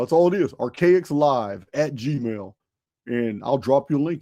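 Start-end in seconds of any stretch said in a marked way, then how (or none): 0.5-2.5 Archaicslive at gmail, drawn out word by word; very slow dictation. Shown as a demonstration. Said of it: "you have to email".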